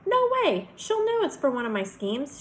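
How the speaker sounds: high, loud protest; emphatic refusal. A narrator's reading. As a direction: burst out in objection. Rejects friend's idea outright.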